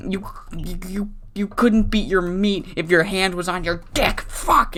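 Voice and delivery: stumbling, hammed-up heel rage; mock furious rant that loses its words; ranting villain promo. Adam Smasher raging at Jimmy after losing, mock furious rant. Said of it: "He's like".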